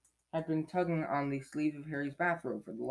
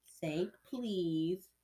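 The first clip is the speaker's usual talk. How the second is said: higher, lilting taunt; needling poltergeist sing-song; annoying sing-song; 4 semitones higher than usual. Acted. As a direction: tease it out in a high lilt. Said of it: "said Peeves in his annoying".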